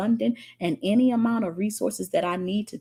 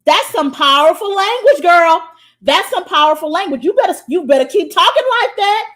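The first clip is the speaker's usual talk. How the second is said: loud praise; 6 semitones higher, 9 dB louder than usual. Real, not acted. Praising a viewer's comment.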